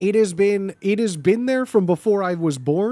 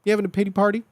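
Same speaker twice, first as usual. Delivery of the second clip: bully taunt; 3 semitones higher, much faster than usual. Pretend. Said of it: "that to me is, is white boy speech".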